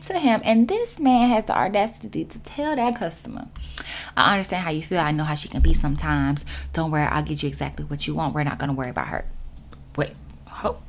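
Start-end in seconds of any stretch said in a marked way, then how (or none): 4.2-9.2 softer, placating, quick reassurance; smooth-talk the customer; soothing manager. Retold or imitated. Manager placating customer behind her back, soft soothing. 10.0-10.8 breathy, softer cut-off gasp of disbelief; stunned whisper. Real, not acted. Clerk stunned by manager's betrayal, shocked whisper.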